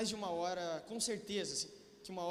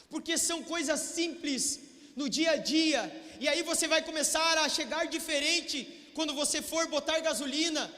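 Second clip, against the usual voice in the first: full-force preaching; 5 semitones higher than usual. Acted.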